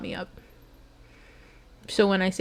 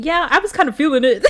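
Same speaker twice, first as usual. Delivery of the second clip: bursting into a teary laugh, louder and higher; laughing emotionally; 8 semitones higher, 8 dB louder than usual. Real, not acted. Streamer laughing through tears as chat praises the reading. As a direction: laugh it out, overwhelmed.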